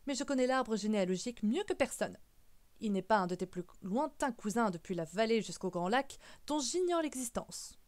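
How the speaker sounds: emphatic protest with swooping pitch; mildly indignant old relative's protest; indignant great-uncle. Acted. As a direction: insist with force, drawing out the last words. Great-uncle disputes the claim.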